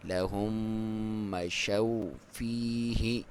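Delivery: slow drawn-out tajweed chant; Quran recitation. Shown as a demonstration. Teacher recites the verse for students, slow chant. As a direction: recite it slowly with full tajweed. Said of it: "غنہ کے ساتھ".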